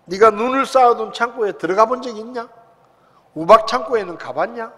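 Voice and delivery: God's relentless loud interrogation; barrage of questions. Retold or imitated. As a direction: pour the questions on him without pause. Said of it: "막 퍼부시는 거예요".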